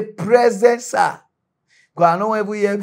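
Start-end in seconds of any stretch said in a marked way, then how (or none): 0.0-1.2 answering roll call. Acted. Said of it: "just say".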